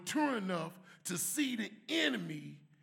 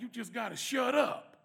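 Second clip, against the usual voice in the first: louder mock rebuke as he heard it; harsh shut up; 3 semitones higher, 7 dB louder than usual. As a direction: bark it like a blunt order. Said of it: "he didn't really say it like that".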